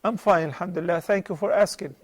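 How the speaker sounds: talking with a sore throat. Real, not acted. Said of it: "You hear my sore throat voice?".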